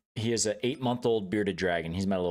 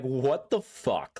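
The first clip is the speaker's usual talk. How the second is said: slow stunned disbelief; 4 semitones higher, much slower than usual. Retold or imitated. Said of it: "And I'm like".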